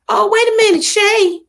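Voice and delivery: high, loud "wait a minute" as she catches a comment; cutting herself off in alarm; sudden surprised stop. Real, not acted. Notices a viewer's bad day.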